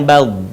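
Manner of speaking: "bal" with the final sound held long; drawn out. Shown as a demonstration. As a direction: let "bal" ring out, stretched. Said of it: "suaranya memanjang". ("bal" dengan suara memanjang)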